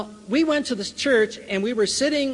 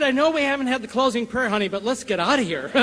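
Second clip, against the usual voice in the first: laughing urgency; 3 semitones higher than usual. Retold or imitated. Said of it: "I said".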